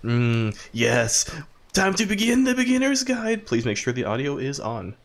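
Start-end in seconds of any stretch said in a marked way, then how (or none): 0.0-3.4 high, sweet creepy coaxing; creepy man voice. Pretend. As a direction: lure them in like a creepy host. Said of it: "creepy man voice".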